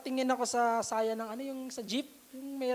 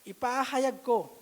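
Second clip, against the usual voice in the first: scripture reading; 2 semitones lower than usual. Shown as a demonstration. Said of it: "Ito, Tagalog po".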